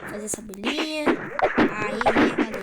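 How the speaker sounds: lightly imitated gamer showing off his play; low-key streamer imitation; Lucão Meno. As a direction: lightly mimic a streamer, pitched a bit down. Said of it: "Tô imitando ele".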